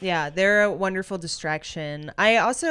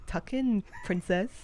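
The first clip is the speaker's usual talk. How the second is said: princess voice; 6 dB quieter than usual. Pretend. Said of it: "the princess voice".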